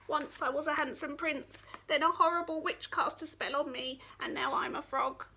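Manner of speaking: lightly voiced high frog, sorry for himself; a hint of a tiny frog's sob story; sad little frog. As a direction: tell it as a pitiful little frog. Frog tells his sad tale.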